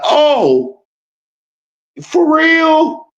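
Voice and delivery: high squeaky mock "for real?"; mock gullible voice. Streamer mocking gullible followers, in a high squeaky voice. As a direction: play the dumb believer, jaw hanging.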